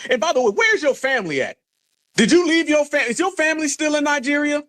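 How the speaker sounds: high mocking questions. Real, not acted. Streamer taunts the Nigerian caller with high mocking questions.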